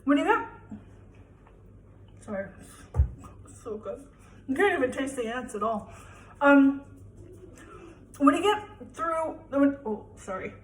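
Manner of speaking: chewing mid-sentence; mouth full. Real, not acted. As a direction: talk through a bite of food. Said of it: "that's why you don't eat with your mouth full".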